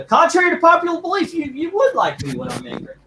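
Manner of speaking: high, loud hammed-up Hulk. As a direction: bellow it like a big green brute. Joking as the Incredible Hulk.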